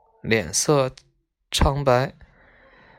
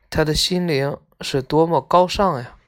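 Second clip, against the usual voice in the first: heartfelt admiration. A narrator's reading. Girl praising her friend's noble heart, heartfelt reading. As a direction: let the admiration swell on 高尚. Story's closing line, read with feeling.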